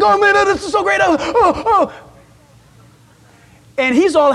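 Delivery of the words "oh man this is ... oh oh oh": lightly voiced happy dog, pitched higher; dog's happy thoughts. Pastor voicing his dog's happy thoughts at the party. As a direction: play the dog's delighted inner voice. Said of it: "if you could just read their mind".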